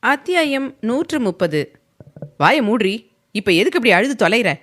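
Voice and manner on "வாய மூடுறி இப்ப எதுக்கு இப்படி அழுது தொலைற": mildly raised, fast scolding; a touch of hot irritation; harsh snapping. Acted. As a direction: snap at the crying wife. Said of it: "காட்டமாக கேட்டான்".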